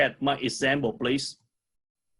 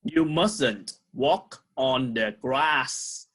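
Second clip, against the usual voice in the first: slow model reading; slower than usual. Shown as a demonstration. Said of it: "And two more".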